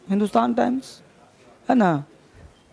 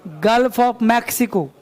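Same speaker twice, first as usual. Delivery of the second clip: very slow, word by word dictation; teacher dictating English phrase; much slower than usual. Shown as a demonstration. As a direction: say it slowly so students can write. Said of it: "teacher dictating slowly".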